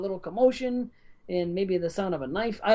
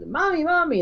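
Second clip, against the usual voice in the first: put-on high, louder child's cry for mommy; child calling mommy; 12 semitones higher, 4 dB louder than usual. Retelling the chase scene, high child's call. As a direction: call out like a scared little kid. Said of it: "and she's".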